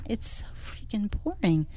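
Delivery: conspiratorial whisper; hushed, playful scorn. Acted. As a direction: breathe it like a secret complaint. Mock disdain for white walls.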